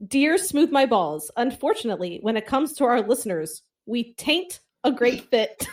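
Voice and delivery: reading a letter, laughing through it; reading with giggles. Retold or imitated. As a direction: hold back laughter while reading. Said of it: "So I'll read it".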